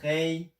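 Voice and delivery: Hei held high and level; first tone demo. Shown as a demonstration. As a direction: sing Hei on one high flat note. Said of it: "c'est premier ton".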